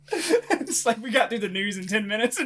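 talking through laughter; laughing. Real, not acted. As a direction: laugh while you say it. Laughing while ranting.

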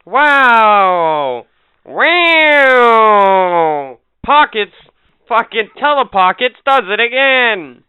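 mock announcer hype. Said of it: "You'll be like".

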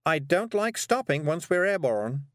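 high, slow, carrying call; calling after someone. A narrator's reading. Miss Level explains before the flight, calling after the girl. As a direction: call it slowly after her. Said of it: "Miss Level called after her".

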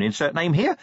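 high, eager imp voice; small voice, keen and official; enthusiastic. A narrator's reading. Imp saluting Vimes before it leaps off, enthusiastic. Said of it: "from despair to enthusiasm".

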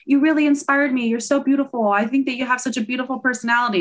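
high, bright, fast gushing; gushing friend. Retold or imitated. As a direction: rush out sweet compliments. Friends gushing compliments quoted.

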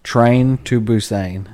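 Busan with a long "ay" in the last syllable; Busan as "boo-SAYN". Real, not acted. Friend suggesting a movie to watch, Busan said "boo-sayn". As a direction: say Busan slowly, rhyming its end with "sane". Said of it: "it's Busan, I think".

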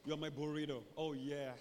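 low, murmured sweet talk; mock-intimate cooing; whispering lovers. Two lovers trading silly pet names, murmuring. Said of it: "two people are just whispering".

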